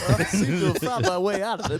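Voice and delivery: put-on Valley Girl voice. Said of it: "sounded like a Valley Girl".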